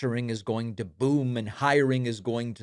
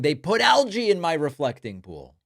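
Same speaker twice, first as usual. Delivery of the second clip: imitating Trump; 4 semitones higher, 3 dB louder than usual. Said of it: "Trump now going".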